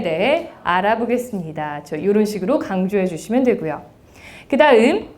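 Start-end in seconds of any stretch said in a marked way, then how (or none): none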